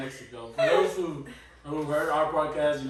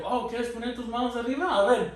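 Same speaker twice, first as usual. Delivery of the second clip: mocking mom; 6 semitones higher than usual. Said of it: "my mom's like".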